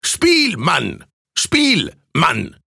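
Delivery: high "Spiel", dropping on "Mann"; rowdy egging on. A narrator's reading. Laughing student urging the musician to play, high rowdy chant. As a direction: chant it at the player, each word separate.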